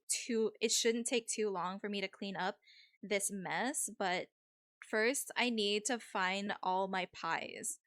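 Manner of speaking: lightly voiced Valley girl; a hint of Valley-girl accent. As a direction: play it as a mild Valley girl. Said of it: "If you guys hate the Valley accent".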